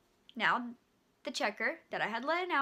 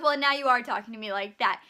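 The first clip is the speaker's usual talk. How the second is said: louder, biting retort; sharp comeback; 2 semitones lower, 7 dB louder than usual. Retold or imitated. Cashier fires back at rude customer, loud and sharp. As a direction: snap it right back at her. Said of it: "zero to one hundred real quick".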